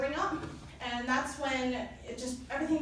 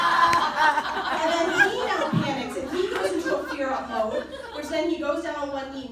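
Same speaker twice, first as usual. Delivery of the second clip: talking through real laughter, louder; can barely get the words out for laughing; 2 semitones higher, 8 dB louder than usual. Real, not acted. Telling the audience about the proposal, laughing hard.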